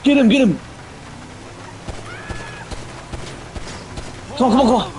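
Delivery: high-pitched yells to grab him; excited yelling. Real, not acted. Chasing a target in the game.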